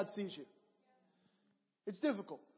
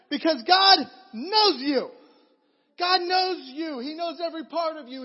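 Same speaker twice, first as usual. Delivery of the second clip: choked up; 6 semitones higher, 9 dB louder than usual. Real, not acted. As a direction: let the voice break with emotion. Preacher overcome, voice cracking.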